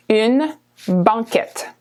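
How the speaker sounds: une banquette said slowly; slow model. Shown as a demonstration. Teacher slowing une banquette for learners, careful. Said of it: "So it's called banquette".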